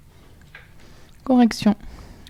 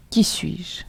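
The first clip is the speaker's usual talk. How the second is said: mysterious whisper. Acted. Teacher poses riddle question.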